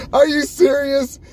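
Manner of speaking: high, slow disbelieving question; mock shocked disbelief; incredulous. Retold reaction to fan.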